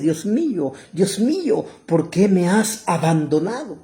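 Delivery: preacher acting an anguished prayer; crying out to God. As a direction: call out in anguish, pitch lifted then falling. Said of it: "él está gritando".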